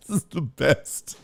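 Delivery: breathy whisper through a laugh. Real, not acted. Host laughing to himself at a super chat, whispering. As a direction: whisper it while cracking up.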